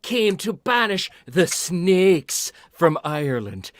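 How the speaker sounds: high, loud ranting Irish ghost; hammy leprechaun brogue, building up. Retold or imitated. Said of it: "And he's like".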